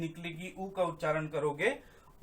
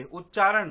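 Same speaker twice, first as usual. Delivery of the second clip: उच्चारण said louder, set apart; stress on उच्चारण; 7 dB louder than usual. Shown as a demonstration. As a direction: hit the word उच्चारण firmly to make the point. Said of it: "मैंने कहा उच्चारण". (उच्चारण पर ज़ोर देकर)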